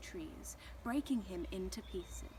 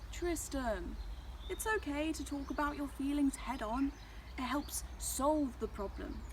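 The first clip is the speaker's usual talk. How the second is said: higher-pitched, encouraging storybook sun; lightly voiced reassuring mentor; kindly sun; 6 semitones higher than usual. A narrator's reading. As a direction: coax a troubled little cloud to open up. Sun kindly advises Tristan.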